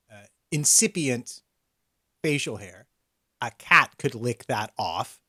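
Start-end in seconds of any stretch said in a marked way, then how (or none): 3.4-5.2 slow deadpan read. Retold or imitated. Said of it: "says about your".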